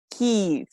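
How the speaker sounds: "Keys" with a long ee, drawn clear; correct pronunciation. Shown as a demonstration. Teacher closing the correction, correct pronunciation. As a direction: say "Keys" as keez. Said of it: "not the same as keys".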